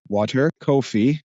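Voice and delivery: "coffee" said slowly with a rounded "oh" vowel, as in "koh-fee"; slow, careful West Coast "Water, coffee"; an LA-style "coffee" in place of the Jersey one; neutral LA accent. Shown as a demonstration. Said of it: "I have to say".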